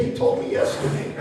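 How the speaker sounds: high, airy granny voice; grandma explaining to grandson, high and breathy; grandma punchline. Retold or imitated. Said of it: "She said".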